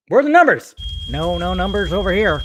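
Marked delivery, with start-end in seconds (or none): 1.1-2.4 lightly voiced exec dodging the question; a hint of an evasive studio boss; mock Walter Hamada. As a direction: pretend studio executive answering fans, mildly voiced.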